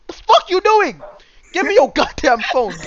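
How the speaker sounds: high loud yell demanding the phone; pretend furious yell. Yelling at the woman to hand over the phone. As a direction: scream it at her, loud and high. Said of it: "I would have been like".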